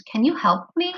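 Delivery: "Can you help me?" pitched high, rising on "me"; rising question intonation. Shown as a demonstration. Teacher showing how a question goes up at the end, rising question intonation. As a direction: let the voice climb at the end on "me". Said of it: "your voice kinda go up at the end".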